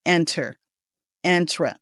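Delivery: "enter, entra" starting with EN as in "ten"; wrong first vowel. Shown as a demonstration. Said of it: "We don't want to say".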